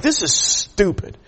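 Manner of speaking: slow, contained irritation; retold fuming. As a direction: stretch it out in mock exasperation. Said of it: "I am just fuming".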